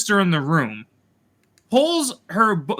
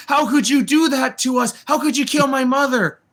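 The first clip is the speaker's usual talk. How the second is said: higher-pitched, hammed-up reproach; mock anguished accusation; 5 semitones higher than usual. Reviewer mimics Osha choking Soul over her mother, mock anguished. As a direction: imitate a wronged daughter accusing someone.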